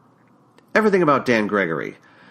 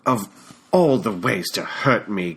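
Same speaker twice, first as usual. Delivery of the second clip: put-on British accent. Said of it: "in that British accent of his".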